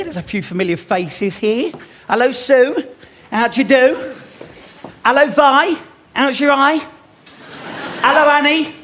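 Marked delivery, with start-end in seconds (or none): 2.1-8.7 loud greeting. Real, not acted. Greeting old ladies in audience.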